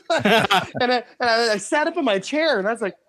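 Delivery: ordinary talk, nothing marked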